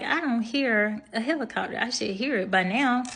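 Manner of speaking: mild bafflement, voice lifting; confused. Retold or imitated. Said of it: "I'm confused 'cause I'm like".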